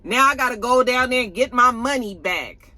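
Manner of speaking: high, dismissive mock-voice; dismissive Auntie. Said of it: "she was just like".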